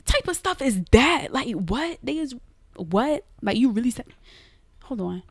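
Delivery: can you believe this; incredulous outrage. Retold or imitated. Starving girl watching staff bring McDonald's, indignant disbelief.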